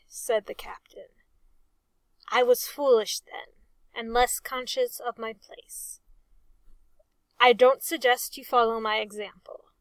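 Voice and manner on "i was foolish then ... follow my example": impressively. Acted. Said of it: "he concluded impressively".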